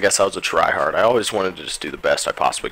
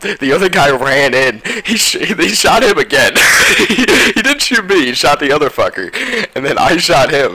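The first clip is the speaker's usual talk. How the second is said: excited; 9 semitones higher, 7 dB louder than usual. Real, not acted. Reliving winning clutch play.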